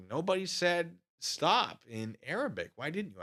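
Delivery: a light take on the sergeant; drill sergeant voice. Retold or imitated. Mimicking the drill sergeant scolding recruits, lightly voiced. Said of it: "That's his voice".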